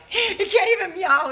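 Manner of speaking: high squeaky mock cat voice, laughing; imitating the cat. Telling her viewers how the old cat sounds, high mock cat squeak. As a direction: squeak it out like a cat that can't meow. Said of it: "this how the fucking thing sounds".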